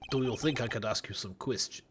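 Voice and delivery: slipping into the wrong character's voice by mistake. Acted. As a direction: start the line in the other character's voice. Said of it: "wrong voice".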